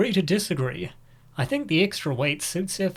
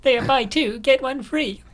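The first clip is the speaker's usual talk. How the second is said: higher, louder cheery cashier; barista voice; 9 semitones higher, 5 dB louder than usual. Acted. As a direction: chirp it like a shop clerk. Voices barista answering Emily.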